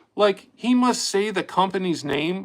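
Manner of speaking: ordinary delivery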